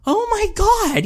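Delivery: high, disbelieving cry; a high cry of disbelief at the opponent's deck; exasperated oh my God. Retold or imitated. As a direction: throw it up like you can't believe it. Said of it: "I'm like".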